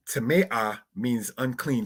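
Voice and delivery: tamea drawn out slowly, stress on the middle syllable; slow Hebrew demo. Shown as a demonstration. Teacher gives the feminine form tamea, said slowly. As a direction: say tamea slowly, then gloss it. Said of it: "looking at it like that".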